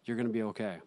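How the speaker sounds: put-on a thick Russian accent, calm and certain. Cab driver reassures his terrified passenger, thick Russian accent. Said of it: "in this thick Russian accent".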